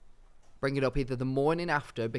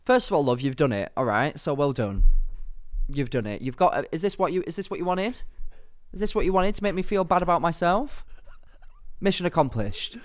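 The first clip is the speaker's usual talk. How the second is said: raised, put-out scolding; mock indignation; 4 semitones higher, 4 dB louder than usual. Host telling off a caller who prefers George, mock indignation. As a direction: play up the wounded indignation.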